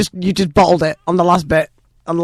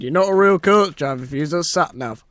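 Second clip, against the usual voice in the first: put-on Yorkshire accent. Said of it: "Especially in that voice".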